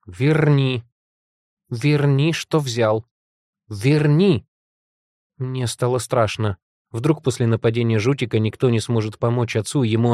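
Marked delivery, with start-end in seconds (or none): 0.1-4.5 raised, insistent command; angry, frightened demand. A narrator's reading. Heroine ordering monster to restore father, angry demand. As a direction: demand it back forcefully. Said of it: "Я так сильно разозлилась и испугалась".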